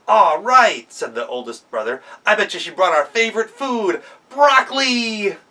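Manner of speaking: put-on high, eager kid voice; thrilled for a treat; little goat delighted; excited brother. Brother excited opens door.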